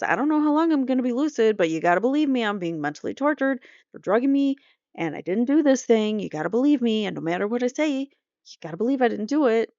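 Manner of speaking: imitating someone insisting on being believed; retold urgent plea. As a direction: plead it in rising waves, as a retelling. Retells defendant's desperate plea.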